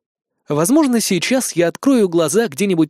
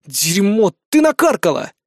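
досада; 4 semitones higher, 3 dB louder than usual. Acted. Марк ругает помощницу.

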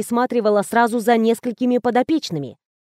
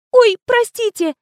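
nearly crying; 12 semitones higher, 4 dB louder than usual. Acted. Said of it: "Чуть не зарыдала Коркина".

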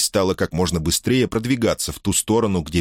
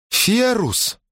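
louder call. A narrator's reading. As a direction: call higher, a bit louder. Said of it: "позвала она громче".

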